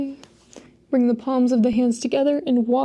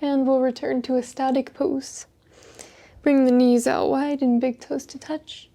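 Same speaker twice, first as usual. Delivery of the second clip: unhurried breath-count pacing; guided yoga breathing. Acted. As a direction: guide them calmly through each breath, leaving space. Leads slow yoga breathing.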